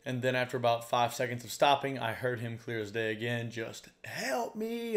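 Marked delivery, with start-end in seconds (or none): 4.0-5.0 mock scream for help. Kayaker imitating the stranger's faint cry, a mock scream for help. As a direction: echo a distant man's desperate cry. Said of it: "a pure scream for help".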